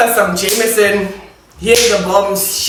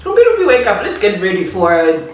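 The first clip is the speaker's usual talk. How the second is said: calling to wake her. Retold or imitated. Waking sleepy cousin at six.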